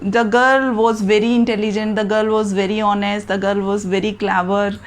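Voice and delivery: slow, careful model sentences; slow dictation. Shown as a demonstration. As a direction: spell it out for the class slowly. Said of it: "अब मैं उसी girl की दोबारा से बात कर रही हूँ". (धीमे, साफ़ बोलकर लिखवाना)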